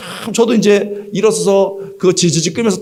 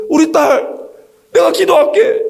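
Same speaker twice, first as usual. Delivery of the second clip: high, earnest mother's call; mother calling after daughter; 10 semitones higher than usual. Retold or imitated. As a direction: call out a promise to pray. 엄마가 딸에게 외침. (수술실로 가는 딸에게 외치는 엄마 목소리)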